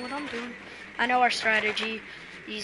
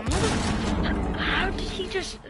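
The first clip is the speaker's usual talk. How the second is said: raging gamer; 8 semitones higher, 3 dB louder, much slower than usual. Real, not acted. Raging after dying in game.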